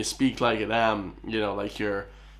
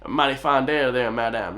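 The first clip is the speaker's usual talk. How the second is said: mock Southern accent; 3 dB louder than usual. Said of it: "that kinda like accent".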